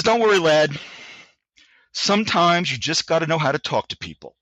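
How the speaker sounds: a light British sergeant, grinning; stereotype British accent. Retold or imitated. Sergeant major grinning at the young soldier in a light British accent. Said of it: "a stereotype British accent".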